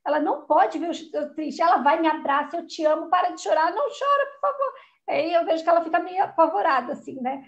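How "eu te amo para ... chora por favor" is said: put-on high, begging little girl voice; pleading child. Daughter begging crying mom to stop, high and pleading. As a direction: imitate a scared child pleading.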